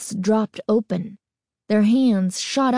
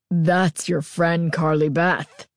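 low slow menacing growl; a masked girl growling at her friends; 3 semitones lower than usual. A narrator's reading. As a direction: growl it out to scare them. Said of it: "she growled".

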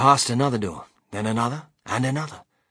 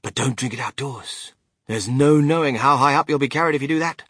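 louder, higher, lively Wonka voice; Mr Wonka, excited storyteller; 3 semitones higher, 7 dB louder than usual. A narrator's reading. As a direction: relish the warning as an eccentric inventor.

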